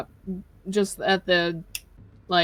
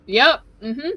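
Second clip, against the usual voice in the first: awkward agreeing; 5 semitones higher, 6 dB louder than usual. Acted. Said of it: "he goes".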